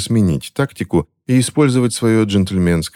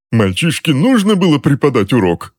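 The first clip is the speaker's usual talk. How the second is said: much higher squealing protest; higher shrill outburst; shrieked; 8 semitones higher than usual. A narrator's reading. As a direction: squeal it out in outrage. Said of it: "взвизгнул Джозеф Кэндалл".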